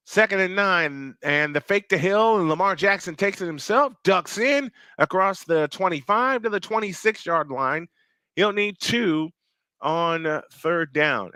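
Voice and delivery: steady, lifted football call; live play-by-play. Real, not acted. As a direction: call the quarterback's run as it happens.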